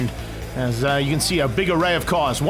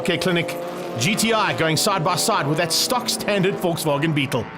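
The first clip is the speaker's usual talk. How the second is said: excited live race play-by-play; motorsport commentator. Real, not acted. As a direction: call the race start live.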